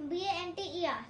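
letter by letter spelling. Real, not acted. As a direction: spell each letter clearly. Spelling bee answer. (अक्षर-अक्षर बोलकर spelling)

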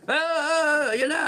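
high, panicky "Ah, ah, ah, ayan na"; mock panicky voice. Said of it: "hindi yung ganyan na". (pagaya ng nagpapanic, mataas ang boses)

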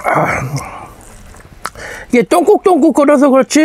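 chewing between words; slightly muffled chewing speech; mouth partly full. Real, not acted. Seen 0: Took a spoonful at -4; lips move in chewing during words.

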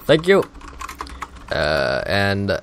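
mock a president giving a speech; Obama impression. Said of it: "that wasn't a good impression".

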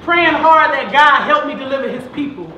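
rhythmic, punchy rhyming delivery with held words; spoken-word poem. Acted. Poet dedicating verses to the boys, spoken-word poetry. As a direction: recite it in swinging slam-poetry cadence.

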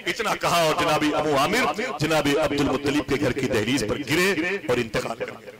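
ordinary delivery

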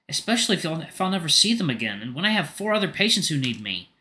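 kind, concerned friend; Rofi's voice. Acted. Rofi explains himself.

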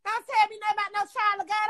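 ordinary talk

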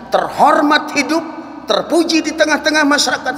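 high, ringing declaration; emphatic proclamation. Acted. Prophet promises honour to followers, emphatic proclamation. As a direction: proclaim each phrase high up.

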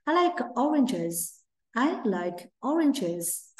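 I like oranges said slowly, word by word; teacher modeling slowly; slow model sentence. Shown as a demonstration. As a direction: drag out I like oranges. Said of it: "Ví dụ như".

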